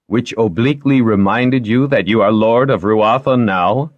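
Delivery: dry teasing guardian, lightly acted; Lightoll's voice. Character dialogue read in story.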